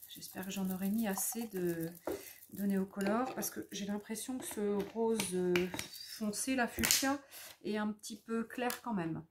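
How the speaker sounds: talking between sips of tea; words around a mouthful of hot tea; sipping tea. Real, not acted. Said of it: "je bois mon thé en même temps". (en buvant son thé)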